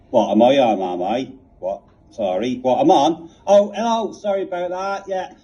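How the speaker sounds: a hint of a West Country caller; lightly voiced, fumbling Devon caller. Reginald from Devon putting his question, a light country voice. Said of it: "next question we have is from Reginald".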